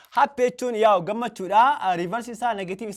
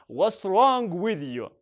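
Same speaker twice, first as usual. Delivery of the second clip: slow model phrase; much slower than usual. Shown as a demonstration. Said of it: "Or you can say".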